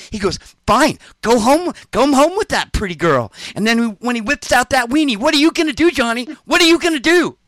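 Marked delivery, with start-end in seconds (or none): 0.6-3.3 mock sulk. Donnie sulking, retold. 5.2-7.4 high, loud teasing sing-song; high mocking taunt. Narrator mocking his friend's surprise, high loud taunt. Mock taunt about the weenie.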